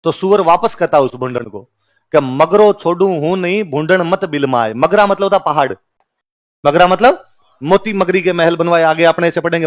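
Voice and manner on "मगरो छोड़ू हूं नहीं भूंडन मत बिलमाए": recited verse. Acted. Boar's reply recited as verse.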